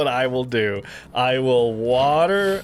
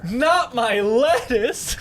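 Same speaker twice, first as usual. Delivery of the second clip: squeaky cartoon plea; 9 semitones higher, much slower than usual. Pleading for his plant.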